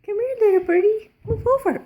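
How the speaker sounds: high, loud sing-song calling; coaxing a wild bird. Real, not acted. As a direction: call the bird in brightly.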